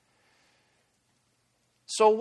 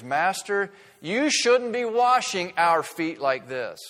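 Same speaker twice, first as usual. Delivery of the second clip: pleading Peter; 4 semitones higher, 5 dB louder, slower than usual. Acted. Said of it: "Living Bible offers the paraphrase".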